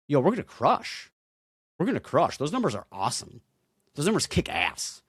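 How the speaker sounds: yo, we're gonna crush it; excited. Real, not acted. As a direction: pump yourself up. Hyped about the numbers.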